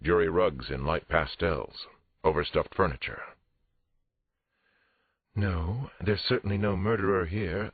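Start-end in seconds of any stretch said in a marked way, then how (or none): 5.3-7.7 higher-pitched indignant woman; firm, affronted denial in a raised pitch; indignant therapist. Acted. Therapist denying a murderer to police, indignant.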